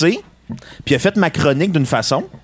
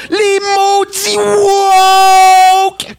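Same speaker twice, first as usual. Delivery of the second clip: ranting radio host; slower than usual. Pretend. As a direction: shout it like a furious talk-radio host. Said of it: "mon démo pour envoyer à Québécois".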